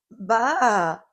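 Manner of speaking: loud bleating baa; lamb baa. A narrator's reading. Lamb calling out to Little Blue. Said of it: "Calf called".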